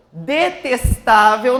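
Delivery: DETESTÁVEL slowly, punching TA; stress on TA. Shown as a demonstration. Teacher asking for the strong syllable, DETESTÁVEL stressed on TA. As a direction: spell out DETESTÁVEL by syllables with weight on TA. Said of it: "nós temos o".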